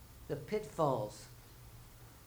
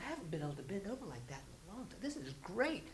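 soft, fast marveling to yourself; quiet amazed mumble; 6 dB quieter, faster than usual. Retold or imitated. Churchgoer bending over again, soft fast marveling. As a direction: mutter in delighted surprise.

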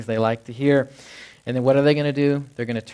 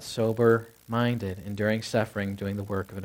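walk back through the verse, quieter and lower; quieter recap; 3 semitones lower, 3 dB quieter than usual. Shown as a demonstration. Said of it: "Well, always be what?".

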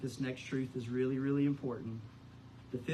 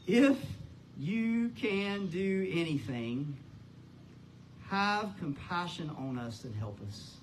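desperate father's cry; 2 semitones higher, slower than usual. Acted. Father crying out to Jesus, desperate plea. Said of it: "the cry of this father's heart".

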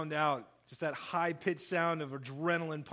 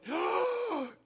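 sharp high gasp of disbelief; shocked gasp; 14 semitones higher than usual. Retold or imitated. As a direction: gasp like you can't believe it. Disciples shocked at Judas.

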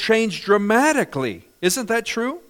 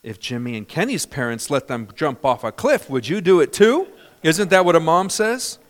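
louder mock mom scolding; stern mom; 5 dB louder than usual. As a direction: ham up the classic mom line, louder. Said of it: "what would a mom say".

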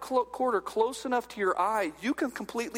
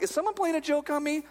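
higher, incredulous question; mock disbelief; 6 semitones higher than usual. Reader doubting the birth announcement, mock disbelief. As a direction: lightly act out being baffled.

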